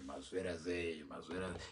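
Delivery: low, soft crooning radio-DJ voice; friend's smooth voice. Retold or imitated. Imitating the friend whose voice girls love, low and soft. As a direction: croon it low and hushed like a charming DJ. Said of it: "just hearing that voice".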